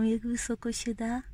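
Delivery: usual speaking voice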